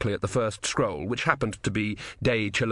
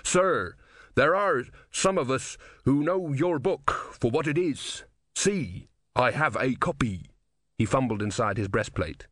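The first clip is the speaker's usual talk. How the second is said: higher, deliberate, reverent soldier's appeal; earnest soldier supplicant; 3 semitones higher than usual. Acted. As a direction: appeal earnestly to a revered master, spacing the words.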